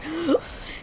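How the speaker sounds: sharp gasp. Retold or imitated. Kid about to scream.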